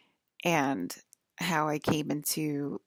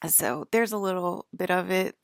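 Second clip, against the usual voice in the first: novice's go at an Irish accent; attempted Irish accent. Shown as a demonstration. Vlogger having a first go at being Irish, attempted Irish accent. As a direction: try out a tentative Irish lilt. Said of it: "my first go trying to be Irish".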